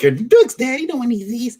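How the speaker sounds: high hammed-up parent warning; mock scolding parent. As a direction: scold it like a fussy dad. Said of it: "he's like".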